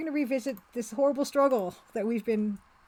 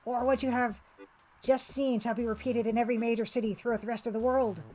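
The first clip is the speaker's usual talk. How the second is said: raspy evil voice. Acted. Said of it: "Kane demands in his raspy, evil voice".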